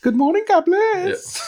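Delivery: put-on very high, nasal old cardinal; high-pitched impression of an elderly cardinal; Cardinal O'Connor. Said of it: "Bernard McGurk used to do that".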